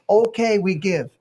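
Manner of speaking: high, pleading mock German accent; whiny mock German accent. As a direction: beg like a bullied German official. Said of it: "German accent".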